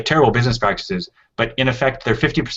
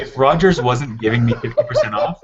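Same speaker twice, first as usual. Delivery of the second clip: laughing; 2 semitones higher, 3 dB louder than usual. Real, not acted. Laughing at friends' teasing.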